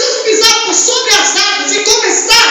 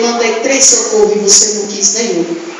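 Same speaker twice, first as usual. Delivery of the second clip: lower and faster; 8 semitones lower than usual. Retold or imitated. God's voice in the story.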